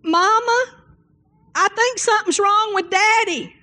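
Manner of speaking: put-on high child's voice calling Mama; a small boy calling worried to his mother; childlike high-pitched call; little boy calling.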